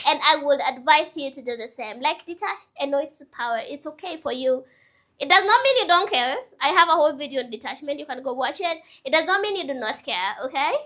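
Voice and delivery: ordinary talk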